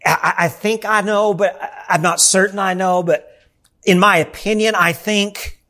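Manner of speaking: stammering, half-hearted mock doubter; lightly voiced nervous waffling; timid, hesitant. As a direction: hedge and falter like you're not sure. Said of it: "It's not a timid".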